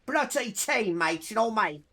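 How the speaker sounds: jokey fake British accent, lightly done; a bit of a hammed-up British bloke; mock British accent. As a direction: play a posh Brit, half joking. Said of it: "I'm kinda posh".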